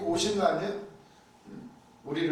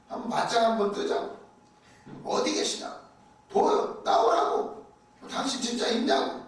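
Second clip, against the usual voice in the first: a pastor's mock challenge to God, partly hissed; demanding half-whispered quarrel, a touch faster, then slowing; retold protest to God; 4 semitones higher than usual. Preacher voicing a desperate pastor challenging God, mock confrontation. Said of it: "따졌대잖아요".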